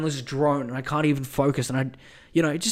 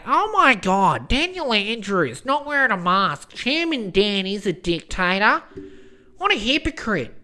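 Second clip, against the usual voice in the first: mock news pundit; 4 semitones higher than usual. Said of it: "Went on Sky News being all like".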